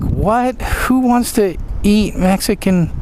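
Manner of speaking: high-pitched disbelief; incredulous. Retold or imitated. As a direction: squeal it in disbelief. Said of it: "We were like".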